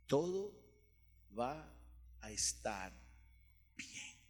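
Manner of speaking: very soft, halting reassurance; God's whisper. Retold or imitated. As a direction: hush it down, pausing between words, low and fading. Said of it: "escuchar el susurro de Dios".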